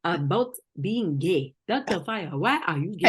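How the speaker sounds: put-on African accent, formal interview; African interviewer, solemn and probing. Questioning doctor about being gay, mock African accent.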